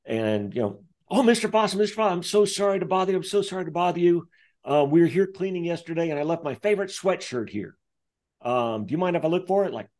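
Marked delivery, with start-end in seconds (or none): 1.1-9.7 higher, fast, overly apologetic cleaner voice; lightly voiced cleaner, higher and fast. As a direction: gush apologies like a nervous cleaner. Voicing the apologetic house cleaner.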